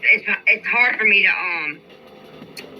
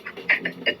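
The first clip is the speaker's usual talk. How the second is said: exasperated breathy laugh; 7 dB quieter than usual. Real, not acted. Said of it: "Just like I'm doing right now".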